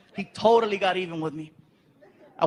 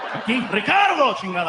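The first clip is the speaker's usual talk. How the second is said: telenovela Spanish. Acted. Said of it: "sound like ... one of those novelas".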